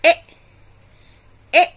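short "e" as in pen, said twice; teacher models short e; short e sound. Shown as a demonstration. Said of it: "Can you repeat after me?".

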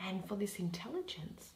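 lightly voiced, brooding soliloquy, often near a hush; musing bitterly on love aloud; Helena's lament. Helena alone, brooding over Demetrius, half-hushed and rueful.

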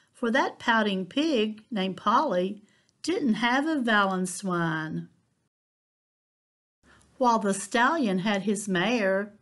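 lively picture-book read-aloud; children's librarian reading a rhyming story. A narrator's reading. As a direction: read it like storytime for little ones.

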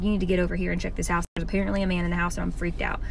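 fast, urgent rush of words; panicked phone call. Retold or imitated. Nanny calling her boyfriend about a stranger in the house. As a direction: hurry it out in a panic.

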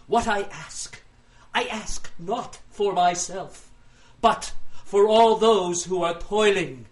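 melodrama. Acted. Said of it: "Melodrama always plays well with the crowds".

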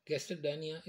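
gastrodynia said "gaster-dynia", no linking o; unsmooth pronunciation. Shown as a demonstration. Teacher showing students the unsmooth form, gastrodynia without its o. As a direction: drop the o from gastrodynia, r straight into d. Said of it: "is not a smooth pronunciation".

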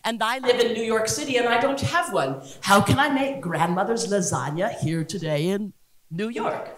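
mild mock-Italian accent; lightly hammed fake Italian host; Giada. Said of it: "bad Italian accent when I'm imitating her".

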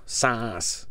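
put-on short quote in a Liverpool accent. British dad echoing his Canadian child's word, Liverpool accent. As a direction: echo it in Liverpool English. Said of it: "we had a Liverpool accent".

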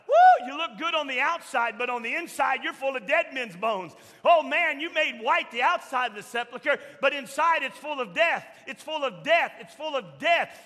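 loud denunciation of the hypocrites; fiery rebuke. Retold or imitated. Jesus condemning the Pharisees, voiced by the preacher in a loud rebuke. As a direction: thunder it at the Pharisees.

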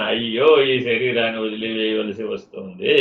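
a touch of a wailing lament, acted out; lightly acted grief over leaving the body; mock lament of the dying. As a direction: sigh out the dying man's mild lament. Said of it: "అని ఏడవడమే మరణ వేదన".

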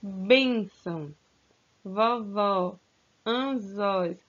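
teacher rereading the words in a calmer voice. Shown as a demonstration. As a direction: repeat the list gently so they can listen. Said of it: "Vou repetir novamente".

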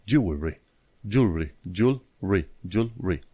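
"jewelry" in two syllables, "jool-ree"; pronunciation model. Shown as a demonstration. Teacher models reduced pronunciation. ("jewelry" în două silabe, "giul-ri")

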